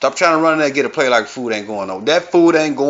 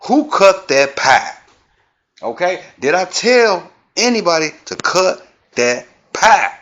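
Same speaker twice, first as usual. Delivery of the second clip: Granny voice; 5 semitones higher, 3 dB louder than usual. Pretend. Grandma finding her pie cut, high indignant granny voice. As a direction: demand it like a grandma who's been wronged. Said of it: "This all come from Granny".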